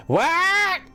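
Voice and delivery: put-on very high, hard-of-hearing old lady squawk. Old lady Nana mishearing a request, squawked old-lady voice. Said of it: "And she goes".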